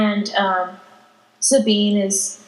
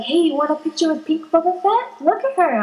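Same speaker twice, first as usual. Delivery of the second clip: higher, quick chirpy parent voice; parent to kids; 5 semitones higher, faster than usual. Retold or imitated. Parents offering kids a picture, chirpy coaxing. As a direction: imitate a parent urging the kids over. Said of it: "they'll tell their kids".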